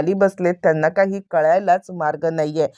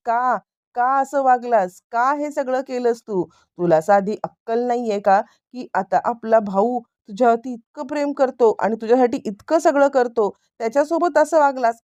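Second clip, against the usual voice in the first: raised-pitch, reproachful questioning; indignant scolding; 5 semitones higher than usual. Retold or imitated. Brother demands why he treated him so, indignant scolding. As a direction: act out a brother's telling-off, pitch climbing to the end.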